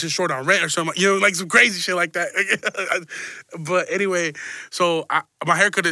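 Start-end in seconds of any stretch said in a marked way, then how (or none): 2.3-3.5 brief amused laugh; light chuckle. Real, not acted. Host laughing at his own crazy example, light chuckle. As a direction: chuckle at your own joke.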